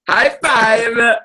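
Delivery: pressing a co-host for a high five, eager call; excited call. Real, not acted. Repeating the unanswered high five.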